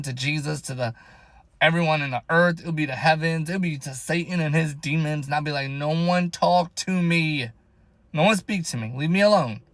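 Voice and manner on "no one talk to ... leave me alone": acted-out irritation, stretched words; retold anger. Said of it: "sometimes I get angry".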